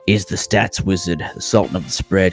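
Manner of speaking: upbeat show-opening announcer read; podcast host intro. Acted. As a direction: open the show like a radio host.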